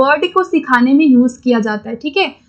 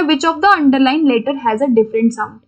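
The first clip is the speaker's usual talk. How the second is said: slow question reading; much slower than usual. Shown as a demonstration. Reads exam question aloud slowly.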